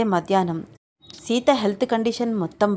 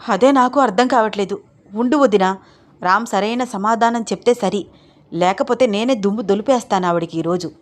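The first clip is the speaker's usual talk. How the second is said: louder, fierce threat; angry threat; 3 dB louder than usual. Acted. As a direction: promise to tell her off. Pavitra threatening the visitor.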